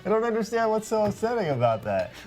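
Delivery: high voice through laughter; cracking up while talking; laughing. Real, not acted. Laughing after Mickey bit.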